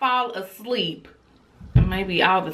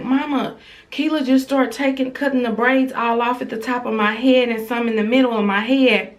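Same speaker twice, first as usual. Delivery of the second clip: higher, lightly voiced child; imitating young daughter; 4 semitones higher than usual. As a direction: retell it as a child telling on her sister. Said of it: "She was like".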